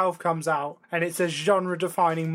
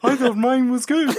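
laughing; 6 semitones higher, 6 dB louder than usual. Real, not acted. Protesting while laughing.

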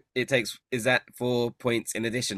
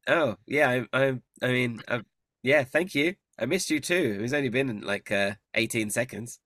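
Agden's voice; 2 semitones higher than usual. Acted.

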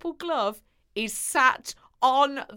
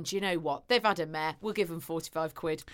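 low, soft resigned parent; quiet; 6 semitones lower, 7 dB quieter, faster than usual. Retold or imitated. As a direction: mutter it, resigned. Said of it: "they've gone".

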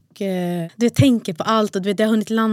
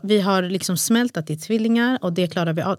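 upset pleading; 2 semitones higher than usual. Retold or imitated. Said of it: "Jag bröt ihop".

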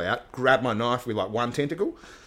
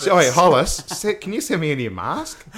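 shout out to a sponsor; 5 semitones higher, 4 dB louder than usual. Real, not acted. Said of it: "All right, shout out".

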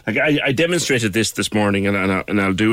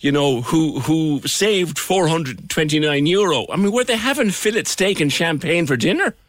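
laughing; 8 semitones higher than usual. Real, not acted. Laughing high excited banter.

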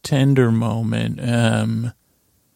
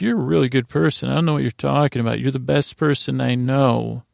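defensive. Retold or imitated. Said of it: "he's really being defensive of her".

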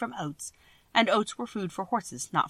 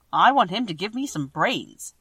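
eager; 5 dB louder than usual. Acted. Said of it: "said the Scarecrow eagerly".

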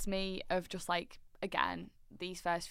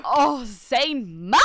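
loud, high, drawn-out swoon; fangirl shout; 6 semitones higher, 15 dB louder, slower than usual. Real, not acted. Friend gushing to co-host over her favourite singer, excited shout. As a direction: cry out the name in slow, rapturous excitement. Fan gushing after belting his part.

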